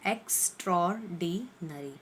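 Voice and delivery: extraordinary said as eks-tror-di-nary, the first r and o run together; correct pronunciation. Shown as a demonstration. Teacher modelling extraordinary for the class. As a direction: model extraordinary slowly for students. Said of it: "इसका सही pronouncing word जो है वो है".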